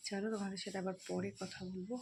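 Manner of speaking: hushed goodbye to viewers; soft sign-off. Real, not acted. Sign-off beside sleeping child.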